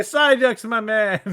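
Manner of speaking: high jokey bro voice; goofy voice. Acted. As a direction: bark it like a dopey bro. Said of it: "I say".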